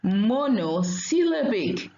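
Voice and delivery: monosyllabic said slowly in separated parts, mono, syllabic; slow, measured monosyllabic with a break after mono; say-together demonstration. Shown as a demonstration. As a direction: stretch out monosyllabic for learners to repeat. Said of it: "Let's say together".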